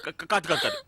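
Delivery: flustered stammer. Acted. Stammering denial.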